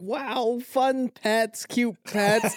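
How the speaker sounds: high, soft voice of an innocent listener; delighted listener. Acted. Imitating listeners who tuned in for cute pets, softly delighted. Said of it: "people who are listening to this being like".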